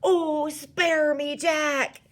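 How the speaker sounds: loud, high, slow plea; yelled. A narrator's reading. Giant begging Jack for mercy, yelling. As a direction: yell it as a drawn-out plea. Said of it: "he yelled".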